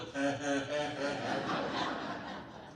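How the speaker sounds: low, drawn-out string of mock chuckles; imitated daddy's chuckle. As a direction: mimic Dad chuckling from down below. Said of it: "our daddy's standing down there going".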